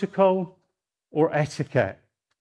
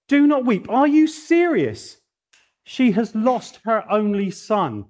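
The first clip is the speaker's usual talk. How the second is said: outraged mourner; 5 semitones higher than usual. Pretend. Professional mourner outraged at Jesus, high and indignant. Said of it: "I would have been outraged".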